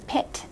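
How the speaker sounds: "pit" with its final t sounded; extra final sound. Retold or imitated. Tutor recalls the student's mistake, "pit" with last sound left on. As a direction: finish "pit" on a clear t. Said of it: "without that last sound usually".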